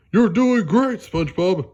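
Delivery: high, loud cheer; big excited praise for a friend. Acted. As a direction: shout encouragement across the yard. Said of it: "Patrick cheered".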